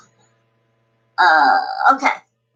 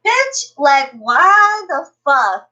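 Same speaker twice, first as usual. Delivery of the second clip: higher, slow, indignant; outraged; 5 semitones higher, 3 dB louder, slower than usual. Real, not acted. A streamer fuming at being called a liar, slow and outraged. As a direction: drag out why the fuck in disbelief.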